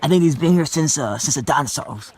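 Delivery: mock Australian nature-show host; Australian accent. Explorer guessing the trees' age, in an Australian accent. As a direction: marvel as an Aussie explorer. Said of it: "Can you speak in an Australian accent".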